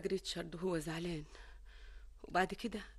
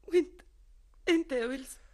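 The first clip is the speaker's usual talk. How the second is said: sudden loud, pleading question; anxious outburst; 5 semitones higher, 8 dB louder than usual. Acted. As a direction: blurt it out, worried. Sister turns anxious question on brother.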